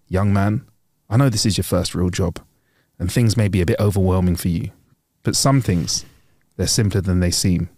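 lightly voiced older boss, pitched low; measured, grave advice in a low voice; stern, wise manager. Manager counselling a nervous new doorman, stern but wise. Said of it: "sternly in his eyes, but with a little bit of wisdom".

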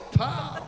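high "pow" impact noise; imitated headbutt. Insulted teacher headbutts the boy, comic impact.

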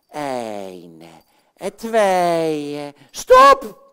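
building count that explodes into a shout; shouted stop. Acted. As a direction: burst out with stop. Puppet counts then shouts stop.

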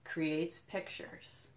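whispered, very slow and soft closing; hushed ending. Acted. Educator finishing the picture book for children, whispered close. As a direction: let the last line fade to a breath.

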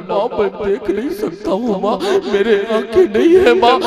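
a hint of an anguished wail; crying out. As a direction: cry out to his mother in grief. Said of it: "چیخ لگا کے بولا".

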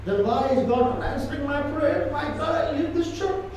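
mock grumbling churchgoer; complaining church member. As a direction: whine it like a hurt believer ready to quit. Congregant complaining God ignores prayers.

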